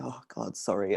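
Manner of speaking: muttered under breath. Playing a character pulling someone toward the exit: muttered under breath. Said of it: "under my breath".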